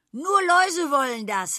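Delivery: high, loud laughing; laughing line. A narrator's reading. Daly jokes about lice, laughing. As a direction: laugh the words out. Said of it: "lachte Daly".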